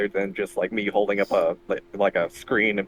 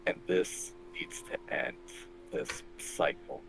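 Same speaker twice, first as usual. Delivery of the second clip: soft hushed take; 10 semitones higher, 13 dB quieter, slower than usual. Acted. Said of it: "I'm trying to talk softly".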